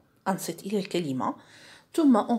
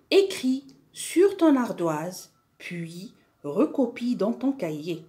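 slow dictation; slower than usual. Shown as a demonstration. Reading out instruction for pupils.

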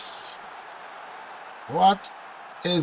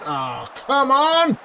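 high, slow drawn-out come on; real frustrated cry; frustrated yell; 11 semitones higher, 4 dB louder, slower than usual. Real, not acted. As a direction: groan it out at the screen. Shot fails to go in.

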